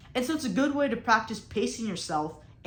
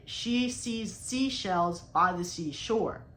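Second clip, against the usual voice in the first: slowed tongue twister try; much slower than usual. Shown as a demonstration. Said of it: "let's just say I'm trying to say".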